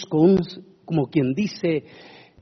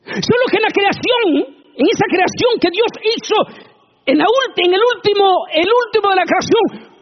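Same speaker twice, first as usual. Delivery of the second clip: fiery preaching; 4 dB louder than usual. Acted. Preacher building to God's final creation with fiery preaching. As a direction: lean hard on último.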